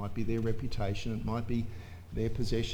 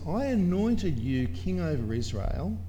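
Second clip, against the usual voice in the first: voice of God; 5 semitones higher, 4 dB louder than usual. Acted. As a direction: boom it out as God rebuking David, building to the end. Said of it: "This is what God said to David. He says".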